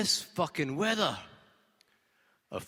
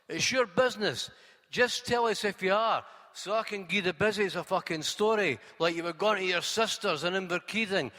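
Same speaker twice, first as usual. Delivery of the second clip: higher, louder Scottish cabbie rattling on; cabbie's brash patter; 5 semitones higher, 4 dB louder than usual. Acted. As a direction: cabbie spinning a story for the police, pitched up. Cabbie lays out cover story.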